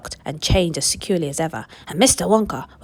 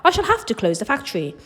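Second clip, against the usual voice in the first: high, loud frantic cry; Willy Wonka shouting in despair, high and loud; panicked shout; 11 semitones higher, 6 dB louder than usual. Acted. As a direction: wail it like a ruined man. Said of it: "tore his beard and shouted".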